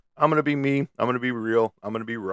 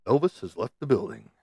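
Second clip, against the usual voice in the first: announcer line. Pretend. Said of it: "the only way you can say it".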